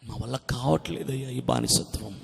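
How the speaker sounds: very soft, low, worn-out murmur; groaning plea. Acted. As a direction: act out slaves groaning quietly to God. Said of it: "మూలుగుచున్నారు ప్రభు కొరకు". (నీరసంగా, మెల్లగా మూలుగుతూ వేడుకోలు)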